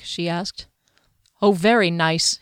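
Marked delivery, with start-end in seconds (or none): 1.4-2.4 dry, sarcastic "very nice". Acted. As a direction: say it with a sarcastic bite. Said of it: "he said sarcastically".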